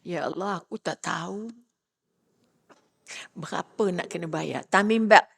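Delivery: a hint of a crying woman praying; tearful prayer.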